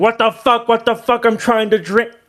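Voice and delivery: frantic screaming outburst, high and rapid. Voicing a character being dragged into a sinkhole by ants: screaming in panic.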